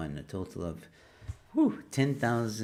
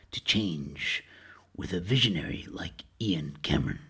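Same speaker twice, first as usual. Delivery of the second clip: movie trailer voice. Pretend. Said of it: "Movie voice time".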